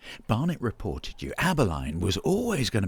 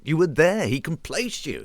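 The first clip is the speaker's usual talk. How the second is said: accusing; 8 semitones higher, 5 dB louder than usual. Acted. Accusing his partner in a row.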